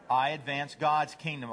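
understated, lightly voiced devoted dog; humble dog. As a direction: answer simply, in an easy pitch. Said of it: "What's a dog say?".

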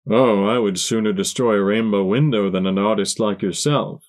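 polished stallion voice; smooth villain voice. Acted. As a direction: speak with smooth courtesy. Light Hooves replies.

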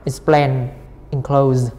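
"Explain, enclose" each stressed on the second syllable. Shown as a demonstration. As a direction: hit PLAIN in "Explain" and CLOSE in "enclose". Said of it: "âm hai".

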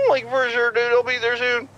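laid-back Scooby-Doo stoner; Shaggy voice. Acted. New caller passed the phone, as Shaggy.

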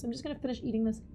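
quick words around a bite; mouth full. Real, not acted. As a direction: talk while chewing fruit. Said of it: "Stress eating continues".

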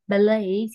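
"Ballet" slowly as "ba-LAY", no t; silent final t. Shown as a demonstration. Teacher repeating the corrected word, "Ballet" with silent t. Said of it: "nó là âm câm".

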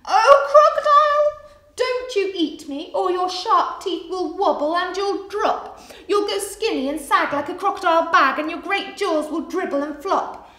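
high, loud, excitable monkey chatter; cheeky monkey, frightened. Acted. Monkey talking crocodile out of eating him, high chatter.

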